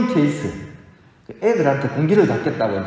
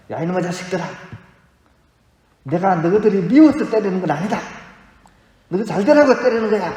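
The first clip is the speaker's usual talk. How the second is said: teacher crying while scolding; 4 semitones higher than usual. Retold or imitated. Weeping teacher scolding his failing students, a retold tearful plea. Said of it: "하면서 막 울면서 막 때렸습니다".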